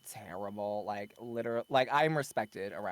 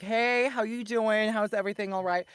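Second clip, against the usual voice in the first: put-on Southern accent; 9 semitones higher, 5 dB louder than usual. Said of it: "my Southern comes out whenever I especially, like, used to work retail".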